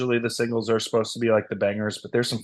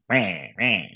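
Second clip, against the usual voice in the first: raven-y Australian sound. Retold or imitated. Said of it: "real raven-y sounding".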